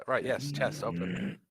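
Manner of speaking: slow and drowsy, drugged up; sedated. Real, not acted. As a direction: speak slowly as if on medication. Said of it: "I'm a bit drugged up".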